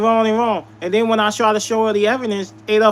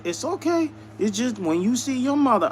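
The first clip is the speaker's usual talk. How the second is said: softer, retold calm warning; mock reassurance; 3 semitones higher, 5 dB quieter than usual. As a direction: say it softly, holding back.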